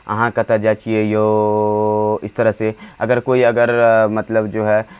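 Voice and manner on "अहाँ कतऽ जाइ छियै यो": Maithili phrase. Shown as a demonstration. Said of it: "Maithili भाषा में इसका जो है यूज़ होता है".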